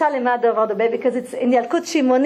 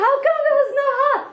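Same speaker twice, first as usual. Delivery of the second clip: very high, fast disbelieving cry; lion can't believe there was no heart; outraged lion; 13 semitones higher, faster than usual. Acted. Lion questions the fox's excuse, very high and fast.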